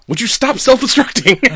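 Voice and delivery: high, loud mock yell at the droid; exasperated yell. Mock exasperated Mando shout.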